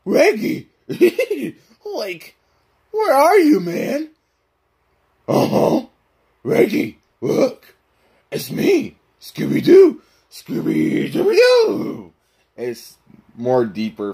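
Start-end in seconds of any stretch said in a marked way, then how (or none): 0.1-4.1 high cartoon slacker calling out; Shaggy. Shown as a demonstration. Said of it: "that's how you do Scooby and Shaggy". 5.3-12.1 throaty talking dog leaping high; Scooby-Doo. Shown as a demonstration. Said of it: "Same thing for Scooby-Doo".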